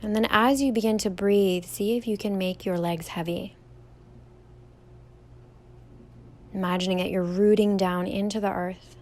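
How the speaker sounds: calm, even meditation guide with long pauses; guided meditation. Real, not acted. Yoga teacher leading listeners through a standing meditation, calm guided delivery. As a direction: guide them gently through each step, leaving room to breathe.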